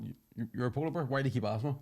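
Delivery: mildly exasperated, questions tumbling out; exasperated mummy bear. Acted. Mummy bear fed up with cub's repeated question, mild exasperation. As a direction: play a mother who's had enough, lightly. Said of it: "has had enough".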